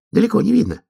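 high-pitched little animal voice; high character voice; second animal's voice. A narrator's reading. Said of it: "другой знакомый голос ответил".

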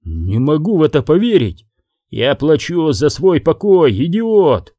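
a hint of fury at the idiot; mild angry shout. Boss yelling at henchman about buying peace, mild shout. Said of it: "теперь уже не кричал".

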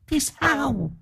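a leering spirit toying with him; eerie high spirit voice, slow and soft; evil spirit voice. Acted. The spirit taunts the exorcist.

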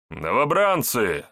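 slow barked call to recruits; gruff barked parade orders. Acted. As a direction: bark it across the parade ground. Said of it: "рявкнул Центурион".

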